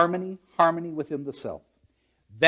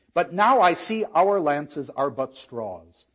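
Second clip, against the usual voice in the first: slow verse; slower than usual. Acted.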